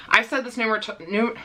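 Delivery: tripping over words through swollen lips; stumbling speech with puffy, swollen lips. Real, not acted. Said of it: "I can't talk because my lips are so swollen".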